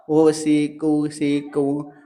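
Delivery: slow halting spelling of सिक्योरिटी as ओ सी कू सी कू की री टू; child sounding out. Retold or imitated. A child stumbling over an English word, slow and halting. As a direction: stumble through the letters slowly. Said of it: "ऐसा कर रहा है".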